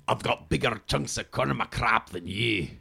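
put-on understated Scottish accent, on the quiet side; Scottish accent, held back; Fat Bastard impression. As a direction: try out a Scottish movie-villain line, lightly. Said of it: "And it's fat bastard".

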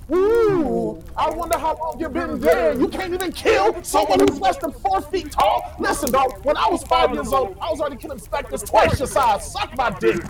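high spooky ghost taunt. Acted. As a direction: moan it out like a ghost. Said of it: "you gotta talk like a ghost".

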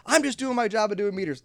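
high mock whine; mock meter maid. Meter maid defending herself, high mock whine. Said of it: "kinda like being a meter maid".

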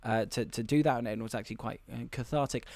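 low, soft, halting explanation; imitated awkward confession. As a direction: confide hesitantly, then hurry quietly through it. Voicing woman's awkward confession.

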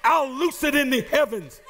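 urgent preacher's rhythm, building through the list; preaching. Acted. Preacher urging the church to kick the devil out, urgent preaching. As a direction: rouse the church to fight back.

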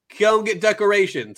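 acted command, drawn out; mock-imperious order to a lackey; bossy order. Haruhi ordering Kyon around.

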